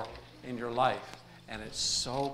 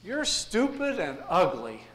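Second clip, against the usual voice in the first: parrot insult; 5 semitones higher, 5 dB louder, slower than usual. Acted. Parrot insults customer in joke.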